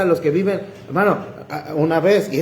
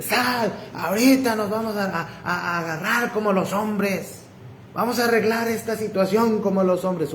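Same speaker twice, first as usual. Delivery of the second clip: higher-pitched mock yelling, volume held back; grito imitado; 4 semitones higher, 3 dB quieter than usual. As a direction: imitate an aggressor challenging someone to fight. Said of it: "gritándome por mi nombre". (imitando gritos desafiantes, en tono agudo)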